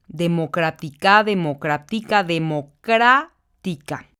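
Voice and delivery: teacher demo: democrática, stress on CRÁ; stressing the tonic syllable. Shown as a demonstration. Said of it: "la sílaba tónica se encuentra en la antepenúltima".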